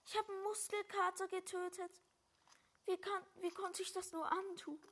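mock grief. Mock grief over killed enemy.

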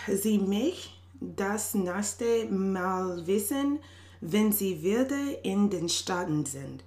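slow, halting German; speaking German. Real, not acted. Woman messaging a faraway friend in rusty German, slow and careful German. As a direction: pick through the German slowly. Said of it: "I haven't spoken German".

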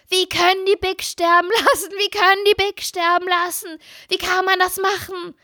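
high, outraged imitation of the sister; mock-indignant little sister, pitched high; upset little sister. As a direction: squeak out the sister's disbelief. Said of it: "Marie sagte".

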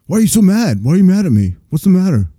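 high, whiny imitation of hurt outsiders; mock offended. Host mimicking outsiders upset by a mild word, mock offended.

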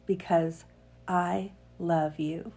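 steady read-aloud narration, earnest; reading a piece aloud. Acted. Podcaster reads a piece to her listeners, read-aloud narration. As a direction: read it like a personal essay.

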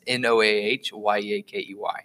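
letter by letter spelling. Shown as a demonstration. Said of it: "just look up Noah Yakey".

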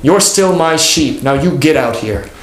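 slow, firm mock call into the house; retold yell. Pastor yelling at the wayward member, a mild mock shout. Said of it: "he yelled into the house".

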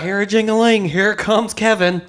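high, loud teasing voice; silly voice. Pretend. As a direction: announce him in a goofy high voice.

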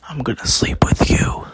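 whispered creepy uncle line. Retold or imitated. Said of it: "My uncle came into my room and said".

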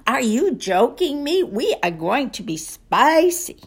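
playful German-accented imitation; mock German showman delivering his catchphrase. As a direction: put on a light German accent with a teasing edge. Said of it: "the way Gunther gives it".

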